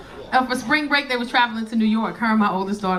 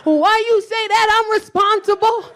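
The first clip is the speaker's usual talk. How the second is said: mock offended; 9 semitones higher, 4 dB louder than usual. Drunk protest to boyfriend.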